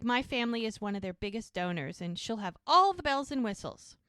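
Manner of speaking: mildly smug retold boast. New boyfriend brags about family donors, smug. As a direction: lean on the boast, rising at the end. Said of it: "he's pretty smug about it, too".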